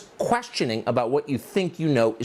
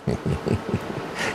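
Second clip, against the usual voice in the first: dry, voiceless laugh; short mocking snicker under the breath; scornful chuckle. Real, not acted. Host laughs at the quote he just read, scornful.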